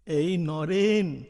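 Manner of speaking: lightly voiced master, slow and lilting, above the narration's pitch; a hint of an otherworldly teacher, unhurried; guru in a dream. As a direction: gently draw out the counsel to a disciple. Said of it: "गुरुदेव ने स्वप्न में दर्शन दिए".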